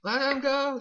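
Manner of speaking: police shout. Acted. Police outside yelling at the robbers to release hostages, shouting. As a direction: bellow from outside the building.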